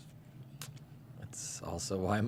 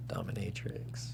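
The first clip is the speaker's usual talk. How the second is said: teasing whisper; 7 dB quieter than usual. Acted. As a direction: drop to a whisper on the last word. Teasing whispered kink suggestion.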